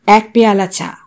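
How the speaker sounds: ordinary delivery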